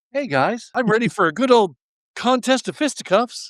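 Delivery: high, happy, eager, thrilled-sounding voice. Voicing a wrestler in a photo who looks so happy: happy Matt Hardy voice. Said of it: "He's just so happy to be here".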